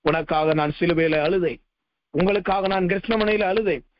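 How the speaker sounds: preacher lightly voicing God, tender and low; the Lord speaking. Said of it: "என்று ஆண்டவர் சொன்னார்".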